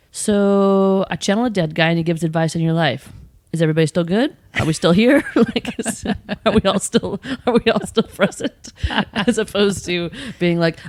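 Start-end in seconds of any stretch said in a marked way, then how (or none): 0.1-8.7 mock awkward explaining. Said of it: "me being like".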